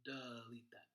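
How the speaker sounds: delete said as duh-LEET, duh set apart; shortened first syllable. Shown as a demonstration. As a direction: make the first vowel of delete a schwa, duh. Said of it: "kinda shorten up that first syllable".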